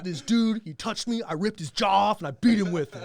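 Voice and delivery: put-on gleefully proud little girl; daughter voice. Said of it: "Just, just gonna be like".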